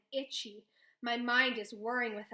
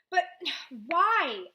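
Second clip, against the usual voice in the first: louder, higher, with a sigh; frustrated shout; 5 semitones higher, 10 dB louder than usual. A narrator's reading. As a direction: push back at her. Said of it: "I shout".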